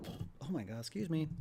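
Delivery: praat na een boer; boeren. Real, not acted. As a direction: een boertje laten tijdens het praten. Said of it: "Burping from grapes".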